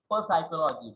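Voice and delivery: "psychology" with an extra "per" sounded before it; wrongly sounded P. Shown as a demonstration. Teacher showing what we cannot say, wrongly sounded P in psychology. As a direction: voice the silent P, "per" then "psychology". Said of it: "we cannot say that".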